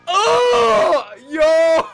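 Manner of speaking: sudden high shout; startled shout. Real, not acted. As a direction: jolt and yell. Jump scare on camera turn.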